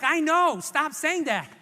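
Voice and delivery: mild mock yell of frustration; retold yell back. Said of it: "And I yelled back".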